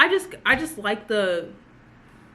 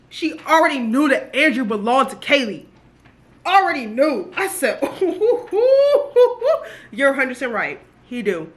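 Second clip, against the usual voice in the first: laughing delight; 4 semitones higher, 7 dB louder than usual. Real, not acted. Gushing and laughing about scene.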